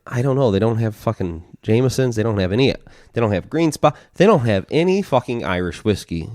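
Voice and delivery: put-upon bar customer, acted out lightly; retold griping. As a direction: rattle off the missing brands as a mock gripe. Retold complaint to chief at bar.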